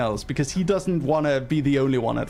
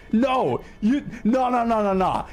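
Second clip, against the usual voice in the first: indignant refusal; 5 semitones higher than usual. Real, not acted. Refusing any sympathy for him.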